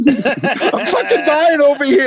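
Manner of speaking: high, drawn-out mock wail; mock dying wail. Co-host playing a patient demanding attention, hammed-up dying wail. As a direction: wail it slowly, hamming up the agony.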